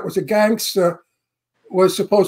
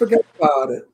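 New York "forget about it" as one run-on word; casual New York catchphrase; New York accent; 5 semitones lower, faster than usual. Shown as a demonstration. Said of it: "something that's more New York".

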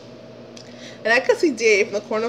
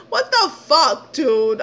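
slow, laughing what-the-fuck; laughing disbelief; 4 semitones higher, slower than usual. Real, not acted. Exasperated after the encounter.

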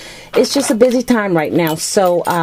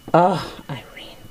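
a soft, touched whisper; hushed whisper; 5 dB quieter than usual. Real, not acted. Whispering to Irene, touched by her gift, whispered. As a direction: breathe it out in a whisper.

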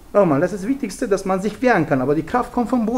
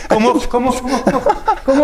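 loud coaching; 4 semitones higher, 5 dB louder than usual. Real, not acted. Coaching partner during drill.

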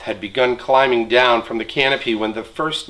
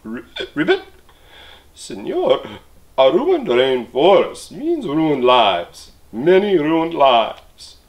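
squeaky frog; 3 semitones higher, 4 dB louder, slower than usual. Acted. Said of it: "In a squeaky voice, he piped".

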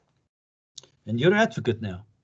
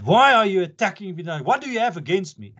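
retold shout; 5 semitones higher than usual. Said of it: "she shouted at me in court".

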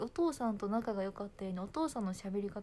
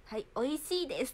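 raised, prim correcting voice; mother's correction; 4 semitones higher than usual. Retold or imitated. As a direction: model the polite wording for a child. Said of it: "って言われる". (母親が言い直させる口調)

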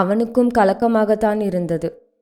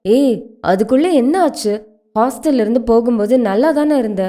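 startled concern; 3 semitones higher than usual. Acted. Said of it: "அவளை பார்த்தவன் திடுக்கிட்டான்".

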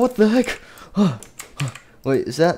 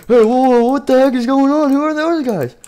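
higher, louder startled outcry; alarmed surprise; 7 semitones higher, 5 dB louder than usual. Acted. Animatronic spotting strange intruders, loudly alarmed. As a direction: shout out in sudden alarm. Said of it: "So he's like".

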